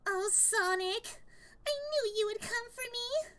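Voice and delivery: lightly voiced swooning Amy; a hint of Amy calling to Sonic. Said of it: "Amy from Sonic the Hedgehog".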